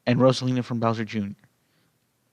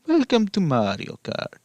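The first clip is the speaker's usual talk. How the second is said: higher, showy game announcer; 7 semitones higher than usual. Acted. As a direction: announce it like a game title screen. Announcer-style game intro.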